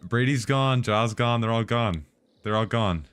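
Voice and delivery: loud, high, heated declaration; furious, cutting them off; angry and fired up. Real, not acted. Angrily banning mods.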